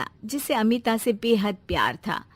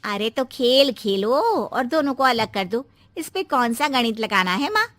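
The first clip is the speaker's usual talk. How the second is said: scheming advice; 4 dB louder than usual. Acted. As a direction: push the plan with relish. Daughter eggs mother on.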